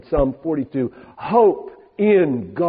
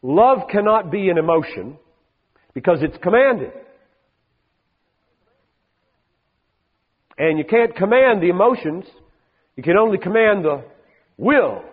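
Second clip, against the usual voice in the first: quoting an argument; 4 semitones higher than usual. Retold or imitated. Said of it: "One argument said".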